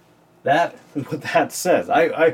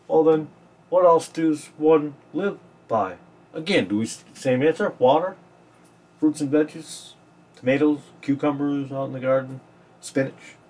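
mildly sarcastic puzzled questioning; dry, lightly mocking mock-questions; a little sarcastic. Real, not acted. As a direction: feign wondering, offering each guess as a question. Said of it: "I'm being a little sarcastic".

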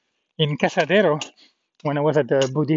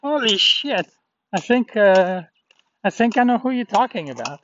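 astonished; 5 semitones higher than usual. Retold or imitated. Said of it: "And I'm like".

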